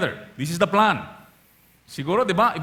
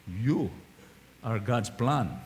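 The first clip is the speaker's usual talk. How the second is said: softer, lower and sincere; telling your neighbor; 9 semitones lower, 6 dB quieter, slower than usual. Shown as a demonstration. Congregation told to say it to their neighbor, sincere. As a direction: say it softly to the person beside you. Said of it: "look at your neighbor and say".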